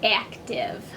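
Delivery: whispered vocabulary word. Acted. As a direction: whisper it to the kids.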